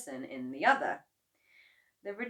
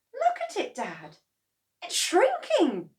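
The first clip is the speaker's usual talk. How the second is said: put-on alarmed boy; 14 semitones higher, 8 dB louder than usual. A narrator's reading. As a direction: point out the shrinking hen to dad. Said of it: "George said".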